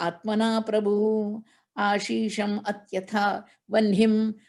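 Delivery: steady chanted Sanskrit recitation; scripture chant in class; verse recitation. Acted.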